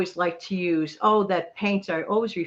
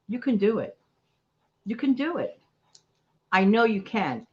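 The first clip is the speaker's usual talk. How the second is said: put-on reassuring a child. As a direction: tell a child gently they can do it. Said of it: "that could say to a child".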